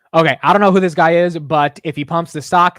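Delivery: loud eager outburst; excited. Real, not acted. Streamer hyping his stock to chat, loud and eager. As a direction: cheer the stock on loudly.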